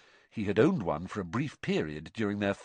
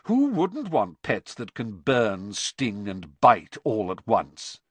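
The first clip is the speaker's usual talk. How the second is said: sarcastic; 4 dB louder, slower than usual. Acted. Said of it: "said Malfoy sarcastically".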